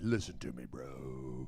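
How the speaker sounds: very low, soft, heavy male voice.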